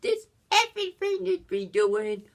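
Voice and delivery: imitating Axel's high, over-the-top fake character; fake persona voice. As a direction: play a con man slipping into a silly cover voice. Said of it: "pretending to be a strategy".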